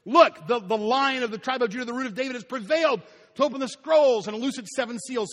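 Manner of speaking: high, loud proclamation; elder proclaiming the Lion of Judah to John. Retold or imitated. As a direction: announce the conqueror with ringing force. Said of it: "This is the way the story goes".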